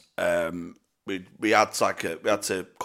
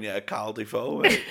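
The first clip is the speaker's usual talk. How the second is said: mock arrogant. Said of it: "arrogantly going".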